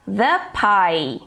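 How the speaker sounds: "The pie" with "The" as "thuh"; short neutral vowel in "The" before "pie"; THE before a consonant. Shown as a demonstration. English teacher giving other examples, "The pie" said "thuh pie". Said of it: "a palavrinha que vem em seguida que vai determinar o som".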